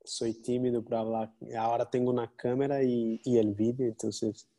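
Spanish with a Portuguese accent. Real, not acted. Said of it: "perdona mi portuñol".

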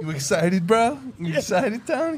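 high teasing sing-song. Acted. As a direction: tease him in a high voice. Teasing about hard nipples.

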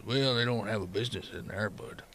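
low, soft miner's voice; hesitant, low-pitched townsman; tired miner. Acted. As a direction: speak low and quietly, noncommittal. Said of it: "and he just goes".

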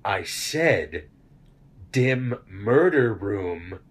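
slow, deadpan command to a smart speaker; mock serious tone. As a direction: drag out "dim murder room to half" with mock gravity. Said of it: "like, serious tone".

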